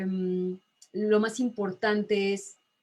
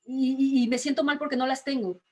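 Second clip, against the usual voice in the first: higher, whiny complaining voice; mock whiny complaint; 4 semitones higher than usual. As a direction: lightly play someone sulking in front of the mirror. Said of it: "en donde digo". (queja quejumbrosa fingida, más aguda)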